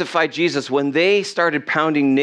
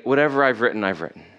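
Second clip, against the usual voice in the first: dismissive finality; 4 semitones lower, much faster than usual. Retold or imitated. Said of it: "And Pilate was like".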